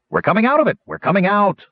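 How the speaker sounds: high, loud, jubilant cry; yelling with delight. Acted. Wingover hops in delight as the ship clears the squall, loud high shouting. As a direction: shout the good news to everyone aboard. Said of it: "Wingover yelled".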